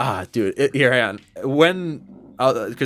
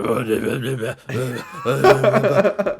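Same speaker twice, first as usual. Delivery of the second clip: garbled gibberish; 5 dB louder than usual. Retold or imitated. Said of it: "started speaking in, like, moon runes".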